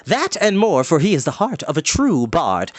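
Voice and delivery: high, bright bardic voice; lightly comic bard; Fluter's voice. Acted. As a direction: play the excitable bard.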